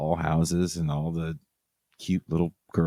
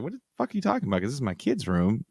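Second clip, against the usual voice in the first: mildly shocked; 5 semitones higher, much faster than usual. Retold or imitated. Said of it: "now she's kinda shocked".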